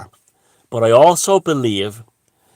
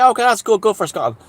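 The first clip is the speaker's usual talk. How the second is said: mock approval; 10 semitones higher, faster than usual. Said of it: "And you would say".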